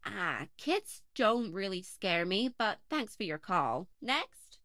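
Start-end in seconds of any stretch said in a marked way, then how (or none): none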